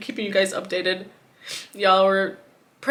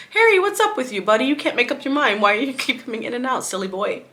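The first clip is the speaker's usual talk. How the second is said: cooing to the cat; 3 semitones higher than usual. Retold or imitated. Talking to the cat.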